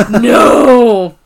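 a gasped, loud, far-off no; mock horrified no. Recapping a sitcom, he mimics a character's horror. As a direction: play the dread of knowing he's fucked up. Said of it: "looks at the camera like".

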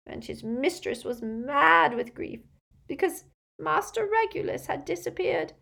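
high, loud, stammering wail; breaking into sobs. A narrator's reading. Elf forbidden to tell the family, stammering sobbing wail. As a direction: build to a sobbing, stuttering cry. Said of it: "Creature began to sob so hard".

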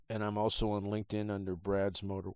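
talking through the hiccups; speaking with hiccups. Real, not acted. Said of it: "I have the hiccups".

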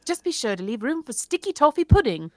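put-on light British accent reading a menu. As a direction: read it with a hint of British accent. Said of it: "I'll read it in an accent".

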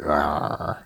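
low pirate growl. Shown as a demonstration. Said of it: "like a pirate".

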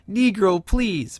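dismissive scoff. Retold or imitated. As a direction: brush him off with contempt. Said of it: "the way that he says it to him is so hysterical".

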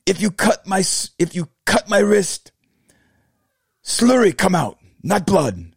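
high-pitched, badly faked Vietnamese accent; halting mock Vietnamese accent, high voice; imitated Vietnamese accent. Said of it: "terrible accent".

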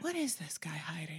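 suspicious whisper; hushed and suspicious. Retold or imitated. Eleanor's suspicious thought.

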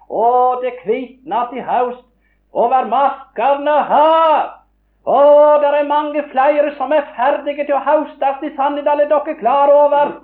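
high, loud, slow and fervent; impassioned preaching. Real, not acted. Preacher rousing the congregation, high and loud. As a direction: sweep them up in the harvest call. Preacher stirring the harvest call.

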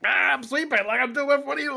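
high, bewildered mock voice; confused sweeper. Ring sweeper baffled by the chanting crowd. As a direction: play the baffled guy in the ring.

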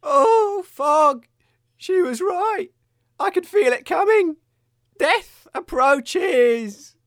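melodramatic dying. Acted.

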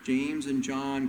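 slow, coaxing plea; pleading mother. Retold or imitated. Mother pressing Jesus for her sons, slow and coaxing. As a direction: draw the favour out slowly, wheedling. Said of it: "takes Jesus aside and he says".

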